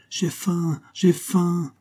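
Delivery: high, drawn wail without much volume; crying voice. A narrator's reading. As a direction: cry it out high like an eerie distant voice. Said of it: "une voix qui criait". (cri plaintif et aigu)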